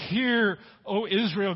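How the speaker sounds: slow, weighty "Hear, O Israel"; emphatic command. Retold or imitated. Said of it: "He's commanding".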